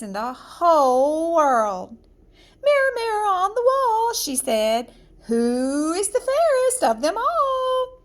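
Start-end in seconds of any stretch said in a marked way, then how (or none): 2.6-4.1 high queenly voice to the mirror; the proud queen, summoning her mirror; haughty queen calling on the mirror, high and ringing; vain queen. Acted. Queen asks the mirror again. 5.2-8.0 high queenly voice to the mirror; the proud queen, summoning her mirror; haughty queen calling on the mirror, high and ringing; vain queen. Acted. Queen asks the mirror again.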